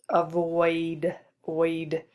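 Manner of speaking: "Avoid" drawn out, then its "oid" ending alone; isolating the sound. Shown as a demonstration. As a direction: say "Avoid" slowly, then echo just "oid". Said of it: "a consonant sound following the oi sound".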